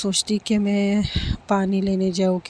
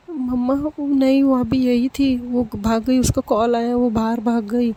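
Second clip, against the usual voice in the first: put-on higher, pleading little girl; a lightly voiced girl near tears; upset insisting girl; 3 semitones higher than usual. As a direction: insist to mama she was really here. Upset daughter insists friend came.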